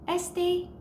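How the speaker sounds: Este es mi drawn out very slowly, gap left for the answer; slow classroom prompt leaving a gap. Shown as a demonstration. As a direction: stretch Su nombre es so learners can fill the blank. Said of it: "I will pause and let you choose".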